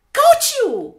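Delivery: high, loud triumph; gleeful catching shout. Acted. Hippo holding the caught bird, high triumphant shout. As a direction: crow it as you grab.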